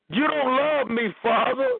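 a hint of a child sulking at his father; sulky Moses. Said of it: "Moses talked crazy to him".

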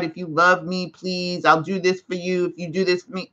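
soft, pleading plea to God; desperate prayer. Retold or imitated. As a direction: beg quietly, bargaining. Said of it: "Stop pleading with God".

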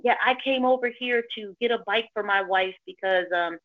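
mildly put-on phone chat; a touch staged, as if on a call; fake phone talk. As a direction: imitate a man faking a phone conversation. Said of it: "this is what he's saying in his phone".

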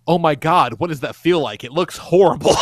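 loud mock horror; appalled reaction. Mobius watching Loki get pulled apart, loudly appalled. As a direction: react aghast, playing it up.

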